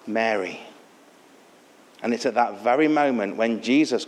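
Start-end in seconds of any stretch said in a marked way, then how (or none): 0.1-0.6 low, soft calling of a name; simple reply. Acted. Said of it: "Jesus simply replies".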